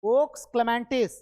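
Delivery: teacher stretching the answer for the class; slow drilled answer. Shown as a demonstration. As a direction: draw the title out so it sticks. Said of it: "फटाफट".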